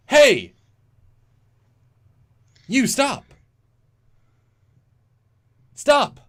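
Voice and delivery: high, loud shouts with long gaps; hammed-up captain yelling in halting bursts; dramatic-pause shout. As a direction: bellow each command, then pause hugely. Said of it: "dramatic pauses in his speech".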